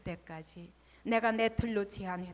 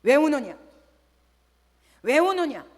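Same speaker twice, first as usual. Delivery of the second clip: loud, booming divine question; voice of God; 4 semitones higher, 14 dB louder than usual. Retold or imitated. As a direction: speak as God calling down. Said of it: "하나님이 말씀하시는". (크게 울리는 하나님의 음성)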